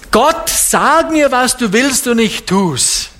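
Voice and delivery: high, slow mock-pious plea; a hint of a whiny lazy Christian; mock lazy prayer. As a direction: parody a lazy believer begging God for orders.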